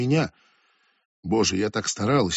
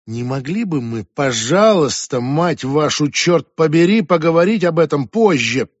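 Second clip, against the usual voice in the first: patience snapping word by word; exasperated; 3 semitones higher, 5 dB louder than usual. Acted. Julia losing patience.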